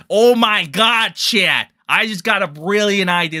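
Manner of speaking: mock Diorio voice. Lightly voiced Diorio announcing a plan to chat. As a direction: play him as an excited schemer. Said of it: "This is my Diorio accent".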